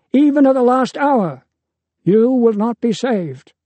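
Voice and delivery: a father warning his son, pushing harder each line. A narrator's reading. Deucalion urgently warns his son.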